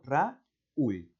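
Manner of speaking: Raúl split into ra-úl with the stress on ú; syllabified. Shown as a demonstration. Teacher showing students the hiatus, Raúl said as ra-úl. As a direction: pull Raúl apart into two syllables, ra and úl. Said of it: "silabear así".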